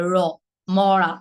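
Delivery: "র" and "মরা" with a heavy curled-tongue flap; pressed retroflex r. Shown as a demonstration. Teacher demonstrating the dark r, pressed. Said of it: "গাঢ় করে প্রেশারটা দিয়ে".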